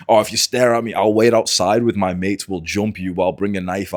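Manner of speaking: loud start easing off, mock menace; imitated threats. Angry gym guy threatens man with his mates, imitated threatening rant. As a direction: reel off the angry guy's threats. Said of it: "this fucking guy comes in again".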